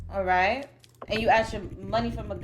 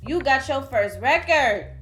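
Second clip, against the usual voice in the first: gloating; 3 semitones higher, 5 dB louder than usual. Real, not acted. Gloating verdict to defendant.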